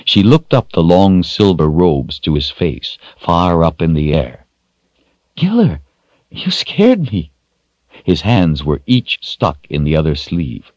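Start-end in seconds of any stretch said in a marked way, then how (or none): 5.4-7.3 high-pitched, slowing little voice; startled child. A narrator's reading. Rachel bumps into Giller, startled child.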